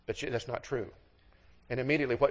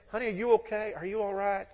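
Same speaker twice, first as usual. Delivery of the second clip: higher, tender voice of concern; concerned husband; 8 semitones higher than usual. Acted. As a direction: gently check that she is all right. Husband checks on crying wife.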